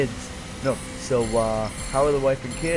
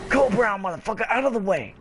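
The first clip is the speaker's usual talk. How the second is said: shouting; 8 semitones higher, faster than usual. Retold or imitated. Quoting game character charging.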